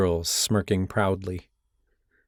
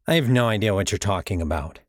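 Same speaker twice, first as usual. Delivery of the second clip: innocently. Acted. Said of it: "he said innocently".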